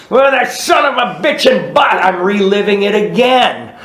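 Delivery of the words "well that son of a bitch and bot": higher, heated complaint; angry grumble. Retold or imitated. Telling his family at home about the boss, heated complaint. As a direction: vent about the boss all over again.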